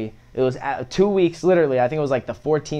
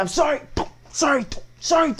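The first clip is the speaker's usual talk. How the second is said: high mock pleading; 14 semitones higher than usual. Begging his mother.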